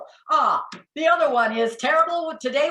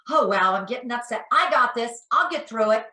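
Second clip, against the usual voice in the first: mock frustration; 4 dB louder than usual. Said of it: "Pretend you're frustrated".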